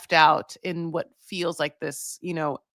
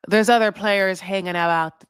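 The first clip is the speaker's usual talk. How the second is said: a shaky attempt at Alan's Scottish accent, a bit louder; failed Scottish accent; 4 dB louder than usual. Shown as a demonstration. Vlogger attempts the host's Scottish line, botched Scottish accent. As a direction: try a Scottish accent and miss. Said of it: "No, I cannot do that Scottish".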